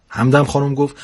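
lively storyteller reading a funny tale; story narration. A narrator's reading. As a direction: read it like a comic bedtime story. Narrator reads humorous story aloud. (روایت داستان طنز)

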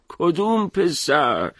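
put-on old man gently laughing it off; amused chuckle. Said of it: "لبخندی زد و گفت".

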